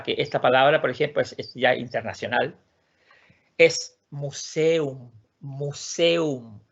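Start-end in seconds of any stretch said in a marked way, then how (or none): 3.6-6.6 museum said slowly, sounding each vowel, mu-se-um; Swedish word. Shown as a demonstration. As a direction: drag out museum, mu-se-um. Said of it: "es la única forma que tiene museum".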